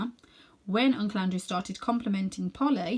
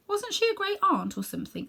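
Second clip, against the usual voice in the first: put-on boy's voice; 13 semitones higher than usual. Boy voiced asking.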